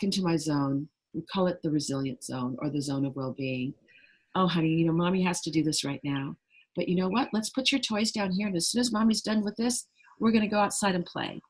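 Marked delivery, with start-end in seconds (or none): 4.3-11.4 gentle parent. Retold or imitated. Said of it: "that's a different approach".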